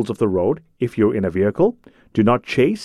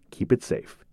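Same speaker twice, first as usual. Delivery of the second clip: whispered; 9 dB quieter than usual. Acted. Closing safety reminder.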